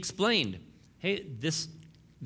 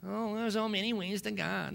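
mocking quote; 8 semitones higher than usual. Mocking what Americans say.

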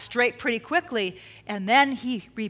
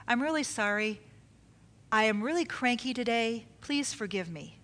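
sincere apology; 2 semitones lower, 6 dB quieter than usual. Shown as a demonstration. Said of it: "say it like this".

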